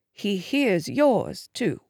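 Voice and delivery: slow, gentle mother's voice; quiet motherly tenderness; tender reassurance. Acted. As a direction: reassure softly, drawing it out. Mother reassures daughter about prayer.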